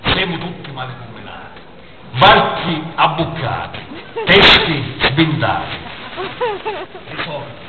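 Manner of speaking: emphatic verse in short, separated phrases; poem recitation. Acted. Poet recites his second poem to the audience, emphatic declamation. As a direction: declaim it phrase by phrase with deliberate pauses.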